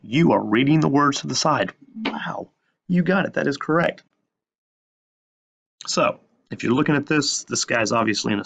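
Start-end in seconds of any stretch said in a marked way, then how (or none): 2.0-4.0 mock praise. Mock praise to absent students.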